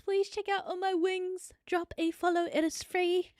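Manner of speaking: out of breath. Real, not acted. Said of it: "I'm sorry I'm out of breath".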